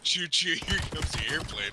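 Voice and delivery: airplane spoon game. Acted. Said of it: "airplane spoon game".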